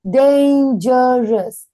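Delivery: "Dangerous" very slow, as dan, ge, rous; separated syllables. Shown as a demonstration. Teacher asking how many syllables, word drawn out by syllable. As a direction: stretch "Dangerous" into three clear beats. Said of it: "How many syllables can you find".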